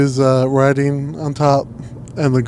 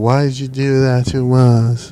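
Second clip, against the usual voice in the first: mock, put-on girly voice. Discussing how men's actions are perceived, the speaker uses a mock girl voice. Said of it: "that's my girl voice from now".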